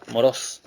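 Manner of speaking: "moros" with the stress on the final O; accent on the O. Shown as a demonstration. Preacher repeating how the word sounds, "moros" stressed on its last O. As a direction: lean on the last syllable of "moros". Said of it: "con acento en la O".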